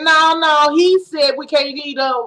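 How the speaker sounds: mildly indignant correction, acted out; emphatic protest. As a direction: voice someone insisting on setting it straight. Voicing Eve's protest to Satan.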